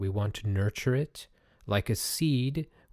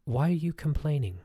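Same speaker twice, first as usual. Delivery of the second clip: a small kind voice inside you asking why; gentle inner voice; 5 semitones higher than usual. Pretend. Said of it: "a little part of you peeps up and says".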